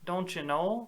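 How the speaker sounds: lightly imitated Montana accent, lilting up; a touch of mock northern hick accent. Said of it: "You're from Montana, and you say".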